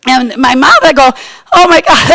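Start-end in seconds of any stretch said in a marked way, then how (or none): 1.5-2.2 higher, mildly upset exclamation; a touch of mock tearfulness; retold crying. Girl home from camp to her mom, mildly tearful. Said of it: "I go, I'm crying".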